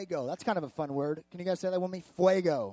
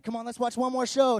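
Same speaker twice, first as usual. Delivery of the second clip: higher, louder playful plea to a wife; retold coaxing; 5 semitones higher, 5 dB louder than usual. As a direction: coax her like an eager husband.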